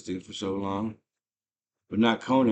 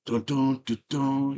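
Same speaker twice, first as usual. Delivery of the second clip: humming the score; 4 semitones higher, slower than usual. Retold or imitated. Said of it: "a lot of trumpets, a lot of horns".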